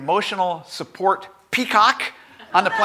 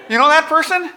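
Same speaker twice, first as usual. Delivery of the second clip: emphatic; 10 semitones higher, 6 dB louder than usual. Real, not acted. Preacher repeats the question more emphatically.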